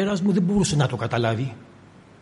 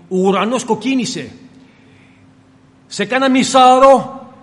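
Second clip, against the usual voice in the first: raised, louder voice of a stubborn fisherman; a fisherman insisting a storm is coming, pushing louder; fisherman's warning; 3 semitones higher, 4 dB louder than usual. Acted. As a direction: warn the stranger like a seasoned fisherman. Preacher voices fishermen warning a man.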